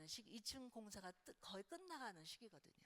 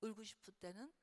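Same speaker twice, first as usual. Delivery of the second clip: tender comfort; 3 dB quieter than usual. Shown as a demonstration. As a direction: comfort a crying teen gently. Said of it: "그렇게만 해주고". (부드럽게 달래는 말투)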